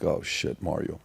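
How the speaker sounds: hushed, unvoiced warning; whispered alarm. Warning Mario as a stranger runs up, whispered. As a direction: whisper it to your buddy, alarmed.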